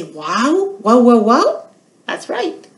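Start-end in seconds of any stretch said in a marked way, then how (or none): 0.0-1.6 dog bark imitation. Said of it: "Did you guys say".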